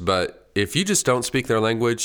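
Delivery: ordinary talk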